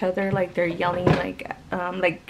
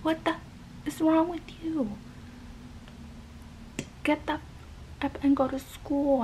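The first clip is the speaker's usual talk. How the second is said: whispered mock rage, pitched higher; imitating angry dad; 7 semitones higher, 6 dB quieter than usual. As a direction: hiss out a dad's tantrum under her breath. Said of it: "the dad just got so pissed, and he was like".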